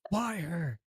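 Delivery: gruff grieving assassin, barely moved from own voice; John Wick voice. Shown as a demonstration. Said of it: "the only things I need to learn is".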